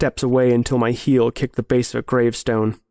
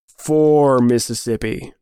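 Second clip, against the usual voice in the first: slow, drawn-out count; menacing countdown; slower than usual. Acted. Friend counting down before the hunt, slow menace. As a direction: stretch out the number as a threat.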